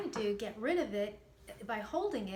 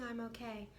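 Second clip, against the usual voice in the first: felt reassurance; 5 dB quieter than usual. Shown as a demonstration. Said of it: "feel it when you're saying".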